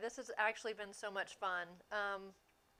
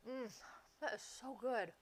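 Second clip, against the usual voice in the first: talking while chewing; words round a bite of brownie; mouth full; 7 dB quieter than usual. Real, not acted. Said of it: "Am I chewing that loud?".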